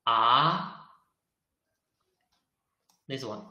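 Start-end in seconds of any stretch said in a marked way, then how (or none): 0.1-0.9 "Ah" gliding steadily upward to the end; rising tone. Shown as a demonstration. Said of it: "it's up".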